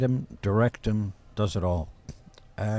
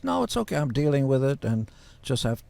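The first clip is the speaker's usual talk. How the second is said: lightly voiced brave sick woman, higher on no; Suzanne Somers imitation; 4 semitones higher than usual. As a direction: mimic her brushing off pity, higher. Retells Suzanne on Stern.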